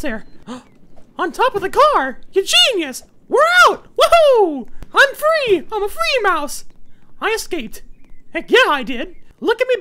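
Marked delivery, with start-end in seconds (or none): 3.3-6.6 excited cheering. Real, not acted. Escaping jail, celebrating.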